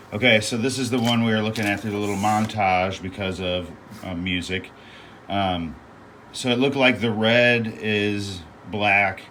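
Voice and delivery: talking over a loud fan. Real, not acted. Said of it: "I'll try to talk over it".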